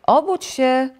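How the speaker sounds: high, loud wake-up call; excited shout to get up. A narrator's reading. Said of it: "zawołał Żabek".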